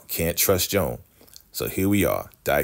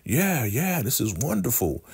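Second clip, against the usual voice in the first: gushing delight; 7 semitones higher than usual. Retold or imitated. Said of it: "And he's like".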